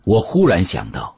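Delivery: ordinary delivery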